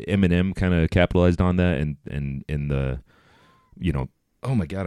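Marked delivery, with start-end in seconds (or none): 1.8-4.9 wheezing breath under the words; wheezy voice. Real, not acted. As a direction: talk through a wheeze. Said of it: "I'm wheezing".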